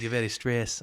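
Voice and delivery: imitated Jamaican accent. Massage lady telling her client he's tense, imitated Jamaican accent. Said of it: "Jamaican accent".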